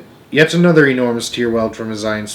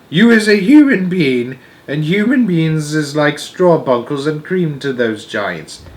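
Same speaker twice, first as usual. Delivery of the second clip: higher, louder storybook giant; high-pitched BFG; 6 semitones higher, 6 dB louder than usual. Acted. The giant explains human beings to Sophie, high-pitched voice. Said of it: "I can't do the high-pitched voice".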